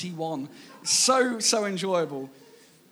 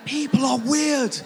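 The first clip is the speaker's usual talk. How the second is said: much louder and higher, slow shout; exasperated shout; 7 semitones higher, 7 dB louder, slower than usual. Real, not acted. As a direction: belt it out, half-laughing in disbelief. Exclaiming at odd searches.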